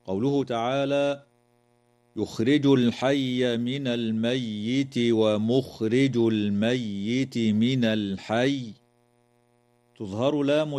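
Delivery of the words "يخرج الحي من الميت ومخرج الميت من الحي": slow measured recitation with held vowels; Quran recitation. Shown as a demonstration. Teacher recites the verse for the class, slow measured chant. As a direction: recite it slowly, lengthening the vowels.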